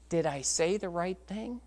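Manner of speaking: soft, tentative question; crestfallen. Retold or imitated. Boy doubting the prayer he said, subdued and unsure. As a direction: ask it quietly, as the doubting boy. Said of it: "his whole demeanor dropped".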